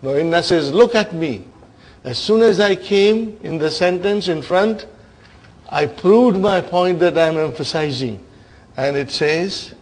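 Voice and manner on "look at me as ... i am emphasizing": loud, self-assertive character speech; proudly prove your point, louder and a little higher; mock boasting. Inna showing off to Lam after pushing it, boastful.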